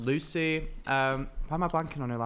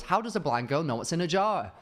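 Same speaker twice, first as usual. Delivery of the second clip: lightly imitated video opener, higher; imitating TikTok intro; 6 semitones higher than usual. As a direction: chant it like a catchy hook. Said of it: "one video was".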